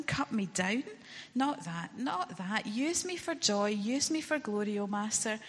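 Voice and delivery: a touch of anguished pleading, pitch rising; beg, shocked and hurt. Acted. Bamboo begging the master not to cut him, mildly distraught.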